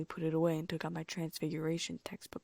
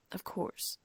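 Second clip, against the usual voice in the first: croaky. Acted. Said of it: "she said in a weird, croaky voice".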